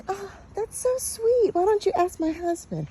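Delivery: high, soft imitation of a touched wife; gushing wife, voiced high. Wife's delighted reply voiced in story.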